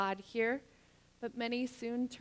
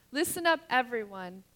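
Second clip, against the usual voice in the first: calling out; 4 dB louder than usual. Real, not acted. Preacher calls congregation again.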